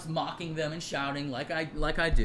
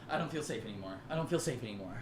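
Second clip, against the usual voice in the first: mocking quiet whimper; 6 semitones lower, 8 dB quieter, faster than usual. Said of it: "and Caitlin went".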